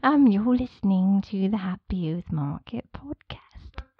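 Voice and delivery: slow, lightly voiced fairy; a hint of a dreamy fairy; tiny tinkling fairy voice. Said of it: "another one with the fairy voice".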